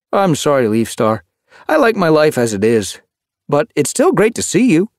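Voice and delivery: high, heartfelt, gentle refusal; friendly warmth. A narrator's reading. Kittypet declines his old leader's offer, warmly. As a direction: turn it down with affection. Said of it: "he added warmly".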